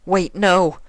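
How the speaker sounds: put-on high, loud young mare's cry; alarmed Twilight. Twilight breaking from Sympathy, high alarmed cry. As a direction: push him off in alarm.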